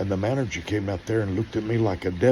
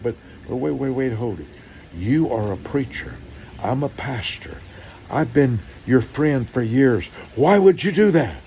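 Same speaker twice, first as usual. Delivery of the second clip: rising alarmed plea, louder at the end; pleading protest; 5 semitones higher, 4 dB louder than usual. Retold or imitated. Pastor protesting to a friend who overcharged, rising plea. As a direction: protest to the contractor in disbelief.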